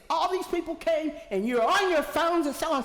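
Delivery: high, loud angry yell; retold screaming. Teen shouting at council about phones, loud angry yell. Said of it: "She was screaming".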